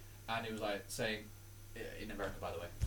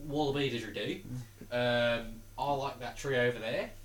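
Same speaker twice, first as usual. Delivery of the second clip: comic Australian accent; 3 dB quieter than usual. Shown as a demonstration. Showing friends an accent, Australian. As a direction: play a casual Aussie, Australian accent. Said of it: "I can do Australian".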